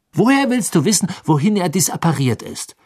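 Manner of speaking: high, argumentative question; sharp challenge. Acted. Hermine disputes Ron's account of Bagman, challenging. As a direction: challenge him, pitched well up.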